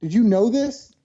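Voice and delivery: mock yelling in disbelief at mom; retold outraged yell. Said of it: "I yelled at my mother".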